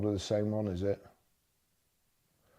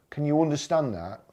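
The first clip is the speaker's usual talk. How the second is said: condescending; 4 semitones higher than usual. Real, not acted. To the EV shills, a condescending question. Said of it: "that sounded condescending".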